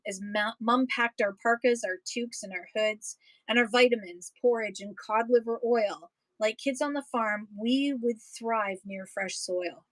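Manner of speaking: steady, rhythmic poem read-aloud. Acted. Reading a prairie poem to an audience, rhythmic read-aloud. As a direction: read the verses with a lilting beat for listeners.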